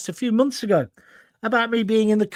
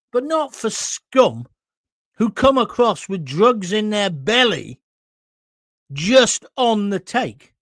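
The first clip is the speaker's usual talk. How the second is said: getting emotional; 4 dB louder, slower than usual. Real, not acted. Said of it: "I'm getting a bit too emotional".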